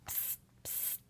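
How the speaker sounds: breathy secret whisper, no voice. Acted. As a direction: whisper it right into someone's ear. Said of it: "he whispered in Mother's ear".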